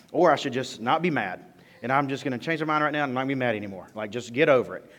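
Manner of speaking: mock-earnest thanks, dripping with irony; sarcastic gratitude. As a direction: play along to show how absurd it is. Sarcastic reply to bad advice.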